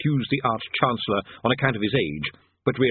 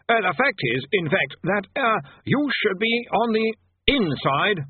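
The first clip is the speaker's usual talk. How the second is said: high, nervous stammering wizard; flustered bursar; 10 semitones higher, slower than usual. A narrator's reading. Bursar flustered before Death.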